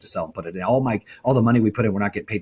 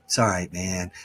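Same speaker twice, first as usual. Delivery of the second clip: lower, softer, easy-going reassurance; calm smiling reassurance; 5 semitones lower, 4 dB quieter than usual. Retold or imitated. Partner Kevin calmly reassuring with a smile during a crisis, lightly imitated. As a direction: shrug it off with a smile even though the house burns. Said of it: "he's gonna smile ear to ear and go".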